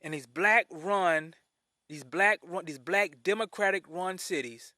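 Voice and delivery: measured, spaced-out restatement; slow, deliberate repeat. Real, not acted. Host repeats so y'all hear this, slow and deliberate. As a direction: lay it out phrase by phrase, slowly. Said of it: "I want y'all to hear this".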